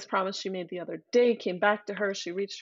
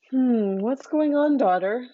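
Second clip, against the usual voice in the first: concerned king; 4 semitones higher, 6 dB louder than usual. Acted. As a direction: ask gently but firmly as a father. King asks his daughter.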